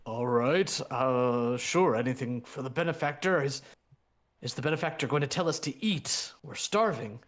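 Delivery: eager but hungry laborer; hardy townsman. Acted.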